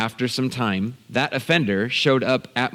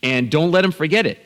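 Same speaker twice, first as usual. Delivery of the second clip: higher, insistent egging-on; urging dad on; 4 semitones higher than usual. Retold or imitated. Son silently begging dad to get the offender back, urgent urging. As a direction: goad him to take revenge. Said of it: "everything inside of me said".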